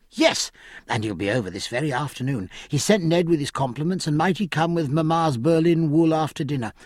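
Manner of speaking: put-on high, quick, indignant girl; a spoiled young lady taking offence; Cecilia. Cecilia excited gossip.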